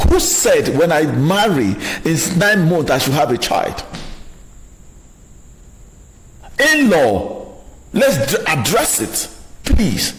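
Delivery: wife pleading with in-law, passionate and energetic; passionate outburst. Acted. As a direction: plead your case with full fire. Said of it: "I talk passionately, no, energetically".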